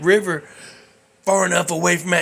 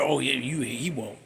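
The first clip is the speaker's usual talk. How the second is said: mock reassurance; 4 semitones lower, 10 dB quieter than usual. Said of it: "You wanna hear".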